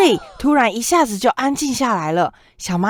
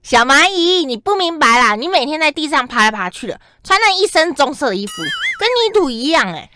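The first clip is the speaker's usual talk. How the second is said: put-on teasing young deer; 4 semitones higher than usual. Deer teases ant.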